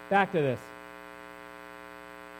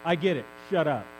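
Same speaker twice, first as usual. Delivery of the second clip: mock grumpy Elijah; 5 semitones lower than usual. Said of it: "My version says".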